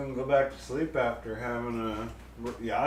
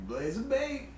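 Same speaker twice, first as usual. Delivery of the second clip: excited shout; 8 semitones higher than usual. Acted. Announcing wheel result.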